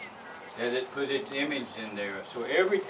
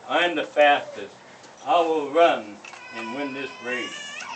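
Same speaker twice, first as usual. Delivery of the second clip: loud proud deer; boastful deer; 7 dB louder than usual. Acted. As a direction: brag loudly about speed.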